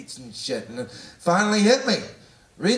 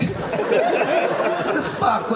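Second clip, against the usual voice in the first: mock disbelief; much slower than usual. Mock shocked outburst.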